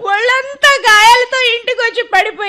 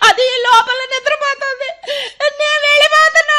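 crying, voice rising on leaving; wife crying as she threatens to leave; tearful crying; 4 semitones higher than usual. Acted. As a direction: sob that you're leaving.

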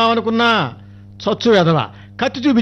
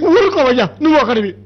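irritated snap; 5 semitones higher than usual. Acted. Father snaps at heckler.

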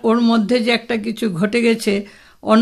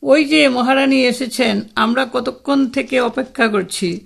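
ordinary delivery, nothing marked

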